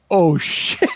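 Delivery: laughing through the curse; laughing oh shit. Retold or imitated. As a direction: laugh it out in disbelief. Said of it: "and I was like".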